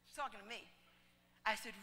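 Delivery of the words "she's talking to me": softer, letting it sink in; softer repeat. Shown as a demonstration. Preacher repeats the irony to the congregation, softer. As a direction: hush it the second time.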